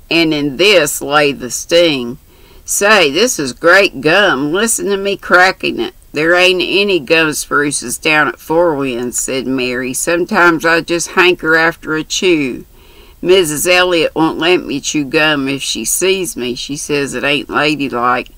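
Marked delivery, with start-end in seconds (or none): 2.7-9.2 lightly voiced brash country girl; chatty, bold young girl. Mary's dialogue voiced. 9.9-18.3 lightly voiced brash country girl; chatty, bold young girl. Mary's dialogue voiced.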